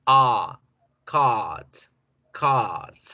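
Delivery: "cart" with the A drawn out; long A. Shown as a demonstration. Teacher stretching the vowel in cart. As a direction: hold the A in "cart". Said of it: "yo alargo la vocal".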